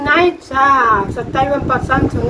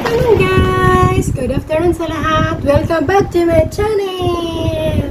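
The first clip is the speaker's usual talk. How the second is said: cheery vlog greeting; 3 semitones higher than usual. Acted. Mukbang vlog greeting to viewers.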